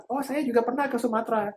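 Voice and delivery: friendly small talk. Pretend. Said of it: "Nah kita bilang".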